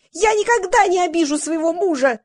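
high-pitched squeal of protest. A narrator's reading. Valya promising never to hurt her husband, squealing. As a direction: squeal it out insistently. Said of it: "завизжала Валя".

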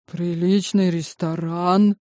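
slow, careful, weighing each word; cautious. Acted. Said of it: "осторожно высказался зять".

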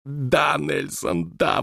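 high, gleeful cheering; exclaimed. A narrator's reading. Scene: Wallace cheering Nelson on, gleeful. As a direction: cheer him on. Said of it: "воскликнул Уоллес".

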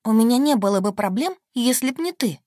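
loud, high angry outburst; flare up. A narrator's reading. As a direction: snap back, flaring. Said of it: "вспылила я".

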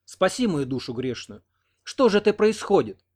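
put-on praying old woman, ending in a high cry; pleading. A narrator's reading. Old partisan woman pleading to God, rising cry. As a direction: beg heaven, rising to a high wail. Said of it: "взмолилась".

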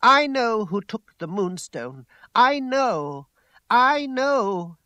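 loud, high insistence, building; in a temper. A narrator's reading. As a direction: hammer it out with rising passion. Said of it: "She stamped on the ground in a peculiar temper".

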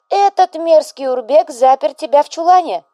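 loud, high, alarmed mother; a fussing widow working herself into a rage; mother boiling over. A narrator's reading. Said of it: "Вдова стала закипать". (встревоженная мать, закипающая)

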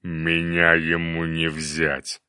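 slow, stubborn monster voice; cyclops growl. Acted. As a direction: rumble it slowly and defiantly. Cyclops voice continues.

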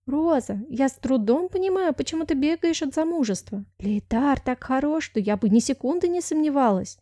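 put-on high, gushing young maid; lightly voiced giddy friend; excited girlfriend. Miranda's voice, gushing. (восторженная подруга)

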